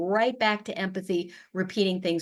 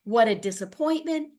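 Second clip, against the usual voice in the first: sympathetic; 7 semitones higher than usual. Shown as a demonstration. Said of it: "are also ways to".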